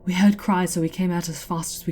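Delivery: calling out. Acted. Elves calling across plaza.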